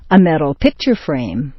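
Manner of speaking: "picture" peaks, "frame" drops; compound stress kept. Shown as a demonstration. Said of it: "the stressed point stays the same".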